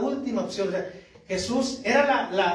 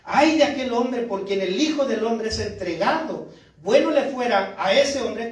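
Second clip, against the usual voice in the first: forceful exclamation, raised pitch and volume; loud cry; 4 semitones higher, 4 dB louder than usual. Acted. Jesus warns Judas before the twelve, in a raised, crying voice. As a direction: cry out the warning loudly. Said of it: "grita fuerte Jesús".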